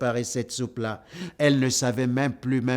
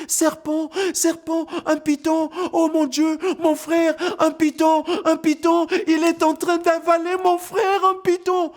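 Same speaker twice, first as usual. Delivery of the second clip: very high, loud panicked cries; terrified screaming; 4 dB louder than usual. Acted. Girl fleeing the snake, screaming in very high panic. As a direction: scream the alarm as you run. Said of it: "Dalla n'arrête pas de crier".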